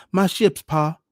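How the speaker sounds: put-on high, loud little-boy wail; weeping child. A narrator's reading. Young son tells his father about his ships, weeping. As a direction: cry out to Pa like an upset small boy. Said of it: "the child answered, weeping".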